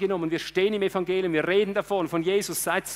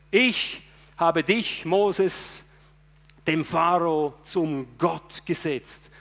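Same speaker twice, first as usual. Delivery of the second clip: very slow, measured quote of scripture; slow solemn reading; much slower than usual. Shown as a demonstration. Preacher reading God's words to Moses, slow and solemn. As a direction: let each word of God land slowly. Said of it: "wortwörtlich".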